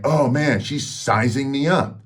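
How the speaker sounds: high, anxious realization; a lightly played dread, slowed; panicked inner thought. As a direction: voice the rising panic in your head. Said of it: "immediately I'm like".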